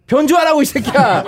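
loud exasperated yell. Real, not acted. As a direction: shout it at him, half laughing. Host yells at drunk guest.

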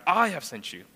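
"I" stretched and weighted, the rest falling; stress on I. Shown as a demonstration. Preacher showing whose sending counts, stress on "I". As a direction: lean firmly on "I". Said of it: "Notice the emphasis".

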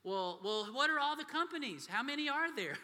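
put-on high, loud eager kid voice; pestering child. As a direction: keep pushing like a curious six-year-old.

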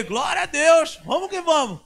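loud, high, exultant praise; joyful shout. Retold or imitated. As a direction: cheer it to the crowd. Celebrating help. (louvor exultante, alto e agudo)

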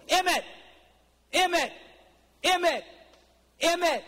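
put-on high, loud kid calling a brother's name; a little boy in a tree calls his brother, high and loud.

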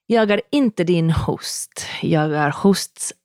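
Stockholm Swedish in a playful whisper. Pretend. Wife whispers in Swedish that she is not the host. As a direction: whisper it like a secret, Swedish accent. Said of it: "doing my best Stockholm accent".

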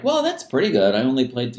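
high, breezy high-schooler shrugging off mistakes; mock naive teenager. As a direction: play the kid who thinks a few wrong notes are fine. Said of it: "you're like".

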